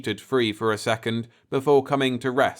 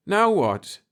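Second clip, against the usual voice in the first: higher, sharp frightened cry; afraid cry; 10 semitones higher, 4 dB louder than usual. A narrator's reading. Jeff on the earphones as the ship rises, afraid. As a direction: cry out in fear. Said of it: "he cried".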